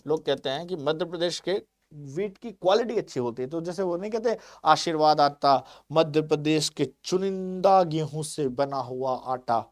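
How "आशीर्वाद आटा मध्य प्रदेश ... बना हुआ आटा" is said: slow, lightly voiced TV-ad read; mock ad slogan. Teacher quoting a flour ad to students, slow mock advert voice. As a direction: savour each word like a flour commercial. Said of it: "इस तरह से कहते हैं लोग".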